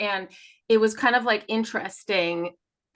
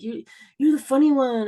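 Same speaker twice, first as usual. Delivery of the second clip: mimicking sister; 6 semitones higher, 5 dB louder than usual. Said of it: "or, like".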